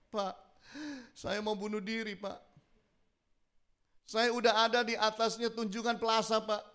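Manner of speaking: high-pitched mock-tearful plea; lightly sobby retold confession; imitated crying caller.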